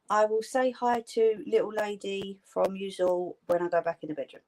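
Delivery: flat robot-like voice; sounding like a robot. Real, not acted. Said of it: "Why do I sound like a robot tonight?".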